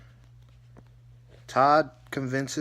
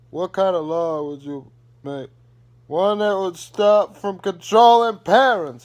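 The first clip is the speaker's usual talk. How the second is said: put-on louder, higher snarky teen retort; sassy Savannah; 6 semitones higher, 10 dB louder than usual. Savannah mocking her parents' question, snarky retort. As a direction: talk back like a fed-up daughter. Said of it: "She's like".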